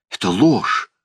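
high, drawn-out cry of protest; indignant yell. A narrator's reading. Uncle accused of kidnapping his nephew, indignant yell. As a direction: stretch out the outraged denial. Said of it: "завопил дядя".

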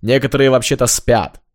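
loud angry neighbour; yelling across the room. Acted. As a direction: shout through the wall. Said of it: "злой голос из соседнего номера".

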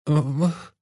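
high, pained moaning groan; a woman groaning in pain. A narrator's reading. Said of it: "простонала женщина". (стон от боли)

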